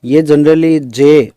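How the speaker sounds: teacher spelling out a letter; slow letter demo. Shown as a demonstration. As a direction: sound out जे slowly. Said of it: "तो ये sound इस तरह से निकलेगी".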